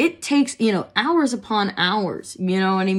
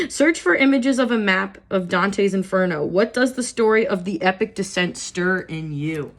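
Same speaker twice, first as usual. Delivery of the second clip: reading aloud; 3 dB louder than usual. Acted. Reads journal prompt.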